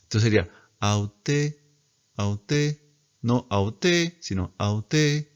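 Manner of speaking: "aute" rising on the final syllable; grave on last syllable. Shown as a demonstration. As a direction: lift the end of "aute" a third. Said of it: "el grave solo va en las últimas".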